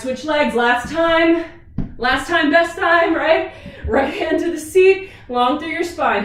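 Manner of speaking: pumped-up push for the final set; rally the class, loud and high; aerobics instructor. Real, not acted. Coach pushing class on last set.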